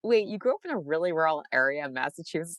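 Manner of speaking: lightly acted disbelief; mild mock surprise. People meeting her react to her rural roots, mildly surprised. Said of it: "they're always like".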